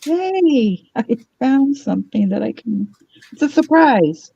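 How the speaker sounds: high, gleeful squeal of discovery; excited squeal. Retold or imitated. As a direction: squeal it like finding treasure. Excited find retold as quote.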